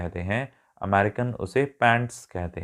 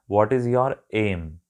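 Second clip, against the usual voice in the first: very slow, each word laid out: What is your aim; slow teaching read of What is your aim; British example question; much slower than usual. Shown as a demonstration. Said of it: "एक British आपसे हमेशा पूछेगा".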